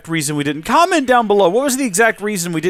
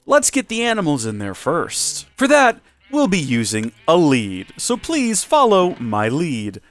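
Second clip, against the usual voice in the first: lightly put-on home makeover host; a touch of TV host polish; HGTV presenter voice; 3 semitones higher than usual. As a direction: present it like a TV renovation show. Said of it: "I'm not gonna stop now".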